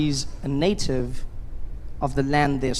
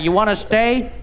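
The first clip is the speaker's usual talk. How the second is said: insisting voice; 5 semitones higher, 5 dB louder than usual. Retold or imitated. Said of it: "He's like".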